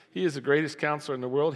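normal talking voice

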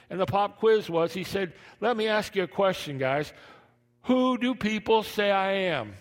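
high, loud excited preaching. Acted. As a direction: preach the scene with fire. Preaching retold scene.

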